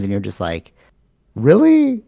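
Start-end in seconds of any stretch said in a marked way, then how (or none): 1.4-2.0 a squeaky, much higher "Really?"; mock disbelief. Mocking the cousin's warning with high disbelief. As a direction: fake shock, pitched way up.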